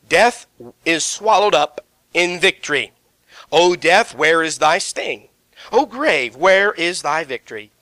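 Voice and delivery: slow, solemn King James reading; scripture reading. Acted. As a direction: read it out like holy writ. Preacher reads scripture aloud.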